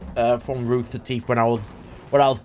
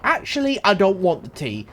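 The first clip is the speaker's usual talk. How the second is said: higher mock refusal, lightly hammed-up; 5 semitones higher than usual. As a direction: turn down the tea in a cartoonish voice. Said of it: "they go".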